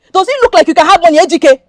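loud, indignant question; scornful challenge. Acted. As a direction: throw it at him in scorn. Scornful rejection of poor suitor.

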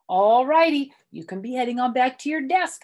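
high, loud eager schoolgirl voice; eager little girl. Acted. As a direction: chirp it like a kid trying to please. Reader voices Junie B.

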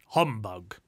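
loud, low grumble; peeved. A narrator's reading. Uncle bested in the conversation, peeved retort. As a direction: dismiss it with loud irritation. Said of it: "clearly peeved that his nephew".

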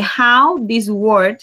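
very drawn out; teacher reading the prompt aloud; slow prompt read. Shown as a demonstration. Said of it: "Y dice".

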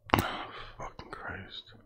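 barely voiced, very slow whispered oath; weary curse. Real, not acted. Reader worn down by the word list, weary whisper. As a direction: breathe the curse out slowly, almost silent.

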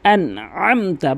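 আনআমতা with the আ from mid-throat; careful আনআমতা, ain not hamza. Shown as a demonstration. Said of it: "হলকের মাঝখান থেকে".

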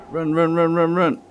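urgent, rising run calls; being chased. Real, not acted. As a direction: hurry them away from danger. Fleeing enemies in the game.

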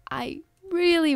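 hushed whisper of hope. Real, not acted. Player hoping the game works, whispering. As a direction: whisper it, fingers crossed.

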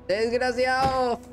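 high, drawn-out cursing; indignant cry. Real, not acted. Player curses the enemy shulker, indignant cry. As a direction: hurl the insult high, stretching it. Insults the enemy after loss.

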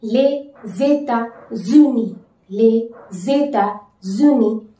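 Les États-Unis with liaison, lay-zay-ta-zoo-nee; slow liaison model; slow French model. Shown as a demonstration. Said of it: "How to say?".

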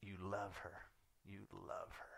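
quiet, measured imitated reply from God; hushed, settled reassurance; God answering. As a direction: answer the outburst with calm certainty. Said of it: "He's like".

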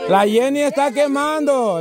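high, sing-out game call; excited announcement. Real, not acted. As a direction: call it out to the whole crowd. Announces player is getting hot. (anuncio agudo y animado)

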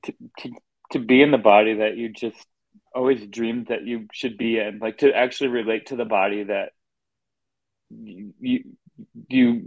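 choked up, fighting back tears; getting emotional. Real, not acted. Telling a friend about his new body, emotional and near tears. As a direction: voice catching, near tears, breaking into a whisper. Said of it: "sorry, I'm gonna get emotional".

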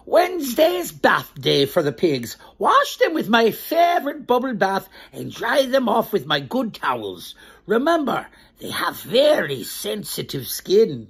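lively storybook read-aloud, slowing on the last line; reading to children. Acted. Storyteller reading a farmer's note to the children.

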